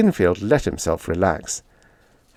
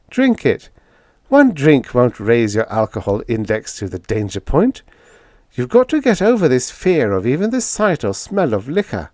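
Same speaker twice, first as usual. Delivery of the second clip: lightly voiced young woman, a bit higher; young woman, coaxing; 4 semitones higher than usual. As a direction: gently urge George, a hint of a higher girl's voice.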